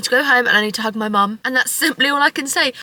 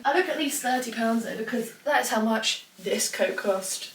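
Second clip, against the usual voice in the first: careful retake; 9 dB quieter than usual. Real, not acted. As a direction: redo the line, drawing out "how much this coat cost". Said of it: "Let me try that again".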